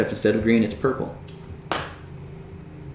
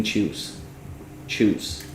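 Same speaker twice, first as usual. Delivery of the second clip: eerie repeated whisper; 7 dB quieter, much slower than usual. Acted. Two voices repeating in head.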